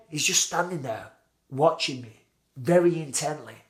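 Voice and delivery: ordinary talk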